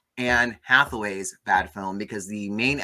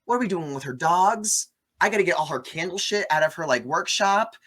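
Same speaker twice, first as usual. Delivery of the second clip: frantic building rant; 6 semitones higher, 4 dB louder than usual. Retold or imitated. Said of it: "I'd be like".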